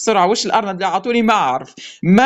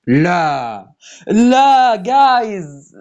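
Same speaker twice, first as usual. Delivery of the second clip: louder, crying out in disbelief; disbelieving cry; 4 dB louder, much slower than usual. Real, not acted. Player seeing another prize, loud disbelieving cry. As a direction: cry out as if it can't be real. Another big win lands.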